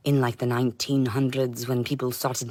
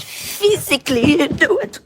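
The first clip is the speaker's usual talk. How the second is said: much higher, louder and slower, with a laugh breaking in; shouted repeat; 13 semitones higher, 6 dB louder than usual. Retold or imitated. Repeating her demand to them, now shouting with a laugh. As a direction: yell the demand the second time. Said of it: "I said".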